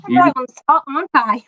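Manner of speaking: chirpy mock British voice; British accent. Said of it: "show them your accent".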